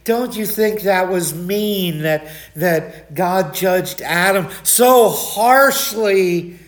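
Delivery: slow, gentle questioning voice; a mild-mannered questioner, slow and soft; soft-spoken man. Retold or imitated. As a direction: ask it meekly, drawing it out slowly. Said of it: "this guy was just so soft-spoken".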